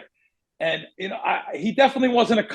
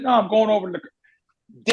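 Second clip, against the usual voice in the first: deadpan; 2 semitones higher than usual. Retold or imitated. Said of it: "deadpan singer face".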